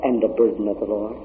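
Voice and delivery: chuckling while answering; joyful laughing reply; laughing through it. Retold or imitated. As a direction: laugh as you explain your tears.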